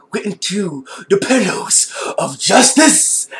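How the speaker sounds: slow, breathy whispered punchline; comic whisper. Real, not acted. Telling where his face landed, a slow whisper. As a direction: whisper it like a naughty secret. Comic aside about the landing.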